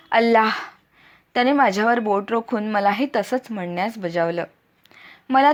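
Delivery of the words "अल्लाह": mildly raised angry cry; angry lion's roar. A narrator's reading. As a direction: cry it out like an enraged lion. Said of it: "बेंबीच्या देठापासून एका क्रोधिष्ठ सिंहाप्रमाणे किंचाळला". (सिंहासारखी संतप्त आरोळी)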